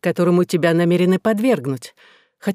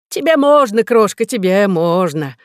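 playful indulgence; 2 semitones higher, 4 dB louder than usual. Acted. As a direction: coo it indulgently. Professor fondly addresses assistant.

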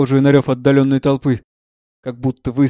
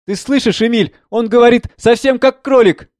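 high, excited, half laughing; mother giggling too loudly; giddy laugh; 9 semitones higher, 3 dB louder than usual. Acted. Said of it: "Так же громко смеётся". (взвинченно и со смехом)

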